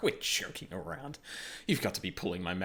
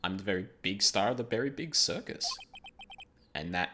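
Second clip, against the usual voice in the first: lightly voiced flamboyant showman; a hint of a fabulous star; Max voice.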